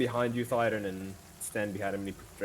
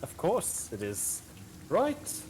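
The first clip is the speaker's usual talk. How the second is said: fey lord voice; slower than usual. Acted. Fey lord answers the dagger question.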